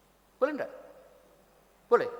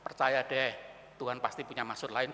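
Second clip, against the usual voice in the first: easy reassurance; 8 semitones lower, 3 dB quieter than usual. Acted. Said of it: "Saya gampang saja ngomong".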